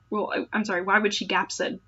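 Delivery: usual speaking voice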